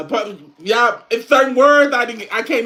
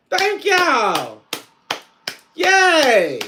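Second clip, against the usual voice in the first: usual speaking voice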